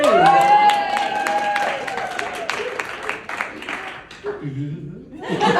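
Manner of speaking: very high, loud shriek of laughter. Real, not acted. Comic laughing at the bad beef joke, shrieking. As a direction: crack up at your own pun.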